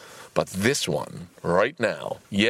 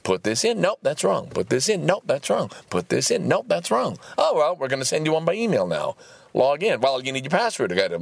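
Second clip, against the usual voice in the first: mock computer loop; 6 semitones higher than usual. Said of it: "There's just".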